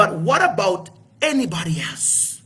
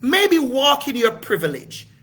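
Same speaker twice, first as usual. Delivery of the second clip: quicker, higher inner voice urging him; a raised, coaxing voice in his head; 5 semitones higher than usual. Retold or imitated. His inner voice urging him to use his title, higher and quick. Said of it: "something says to me".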